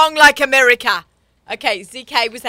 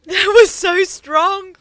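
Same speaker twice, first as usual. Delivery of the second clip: "That was so strong" stretched slow and high, wine too strong; shocked drawn-out exclamation; 9 semitones higher, 4 dB louder, much slower than usual. Real, not acted. Host reacting to the strong wine, stretched high and slow. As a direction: drag it out in shock at the taste.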